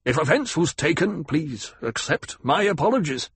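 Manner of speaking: lightly strained formal climb-down; lightly voiced apologetic banker. Banker apologizes to the ecologist, mildly stiff.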